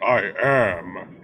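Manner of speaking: grounded, emphatic declaration; strong. Shown as a demonstration. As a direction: say it strongly, like a thunder god. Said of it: "don't even say it that strongly".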